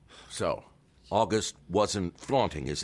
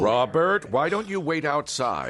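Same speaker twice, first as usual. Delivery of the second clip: sharp order; 9 semitones higher, 7 dB louder, slower than usual. Acted. Sending the hothead out.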